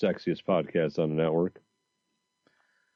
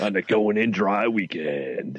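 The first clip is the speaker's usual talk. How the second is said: shock jock radio host; slower than usual. Acted.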